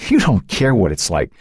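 anguished, choked-up accusation; tearful, despairing outburst; strangled by a sob. A narrator's reading. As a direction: climb in pitch, then drag out the last words in despair. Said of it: "strangled by a sob".

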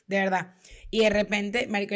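ordinary talk

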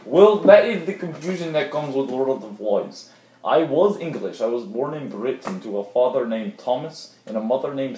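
put-on muddled accent with swooping pitch; odd would-be English accent. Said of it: "what is that accent?".

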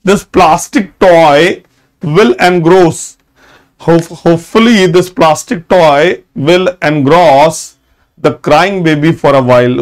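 very slow, word by word; teacher reading an example sentence to students. Shown as a demonstration. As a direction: read the example out slowly for notes. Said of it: "देखिए example देखिए".

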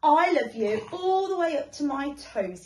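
little hare showing off; proud little hare. Acted. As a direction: show off proudly.

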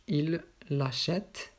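"il l'achète" slow, with a long L before "achète"; emphasis on elision. Shown as a demonstration. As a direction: draw out "il l'" in "il l'achète". Teacher models elided pronoun. (prononcer lentement « il l'achète » en allongeant le L)

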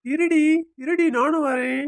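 husband calling after his departing wife. Acted. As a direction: call her back as she walks off. Husband calls after leaving wife.

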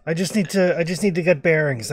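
light, half-acted shout; shouting from afar. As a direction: explain it across a distance. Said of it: "again, he's shouting".

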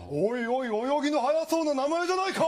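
lightly voiced cocky turtle joking with a kid; teasing turtle. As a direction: rib the boy cheerfully.

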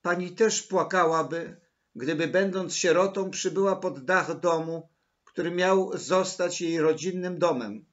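loud, high, tragic protest; impassioned distress. A narrator's reading. Orphan girl tells Maryla of her tragedy, impassioned distress. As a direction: plead your misery with dramatic force.

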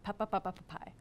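soft, dying pa cries; fading cries of pain. Retold or imitated. The hero trailing off into pained cries. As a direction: let the cries fade out. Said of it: "And Philoctetes says".

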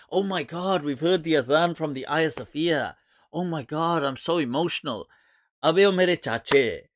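mocking imitation of gushing believers; lightly hammed-up emotion, in ridicule; mock emotional. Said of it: "they're acting all emotional".

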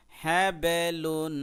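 হ্যাবেলুন drawn out very slowly and loud, the ব bounced; হ্যাবেলুন recited slowly and loudly with a jolt on ব; qalqala demo. Shown as a demonstration. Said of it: "ধাক্কা দিয়ে উচ্চারণ করতে হবে".

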